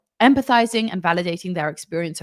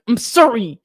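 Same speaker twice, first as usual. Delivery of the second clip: "I'm sorry" forced out through gritted teeth, louder; grudging sorry; 2 semitones higher, 6 dB louder than usual. Retold or imitated. Parent mimics a child's forced "I'm sorry", gritted teeth. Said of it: "through gritted teeth".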